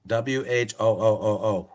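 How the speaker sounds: who, held long, the vowel O stretched out; drawn-out who. Shown as a demonstration. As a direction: draw out the O in who. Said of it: "the spleen mantra is".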